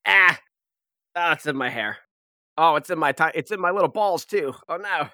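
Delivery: panicked yelps swatting at hair; shaking off needles. Acted. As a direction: flail at needles tangled in hair. Pine needles in her hair.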